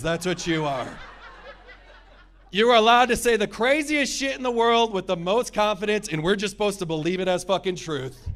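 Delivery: comic rant at spiritual people; mock rant. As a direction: rail at them, half joking.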